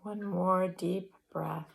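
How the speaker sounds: measured breathing cues with long pauses; guided breathing meditation. Real, not acted. Yoga teacher guiding students through inhale and exhale, measured meditation voice. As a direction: lead the breaths, leaving space after each cue.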